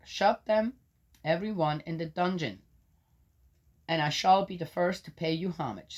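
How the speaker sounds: solemn public reading of Job; scripture reading. Acted. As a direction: proclaim it like a lector. Reads scripture.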